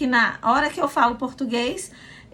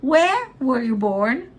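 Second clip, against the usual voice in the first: teacher modelling a wh-question; stress on Where; much slower than usual. Shown as a demonstration. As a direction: slowly punch Where, let the rest fall. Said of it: "que é a coisa mais importante".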